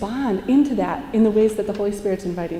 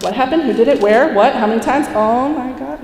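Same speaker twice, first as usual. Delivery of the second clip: rapid, louder nosy questions; mock frantic questioning; 3 semitones higher, 5 dB louder than usual. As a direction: pepper the kid with frantic questions. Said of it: "the non-feminine geniuses that were like".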